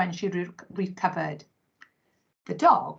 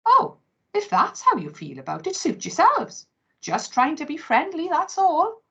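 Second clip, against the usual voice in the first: huffy, offended dog; 9 semitones higher than usual. Acted.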